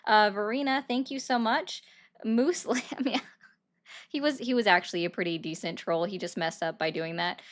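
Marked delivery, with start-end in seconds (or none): 2.2-3.2 "Muslim" as MOOSE-lum, then a laugh; amused mimicked mispronunciation. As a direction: echo "Muslim" with a long oo, amused. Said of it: "That was actually kinda funny".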